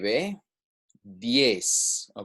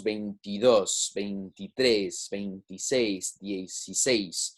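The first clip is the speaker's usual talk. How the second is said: "veintidós, veintitrés, veintiséis, dieciséis", each ending on its stressed syllable; stress on last syllable; 2 semitones lower than usual. Shown as a demonstration. Teacher explaining written accents, last-syllable stress on "veintidós, veintitrés, veintiséis, dieciséis". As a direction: land on DÓS, TRÉS, SÉIS, SÉIS. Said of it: "pronunciation will be on that last syllable".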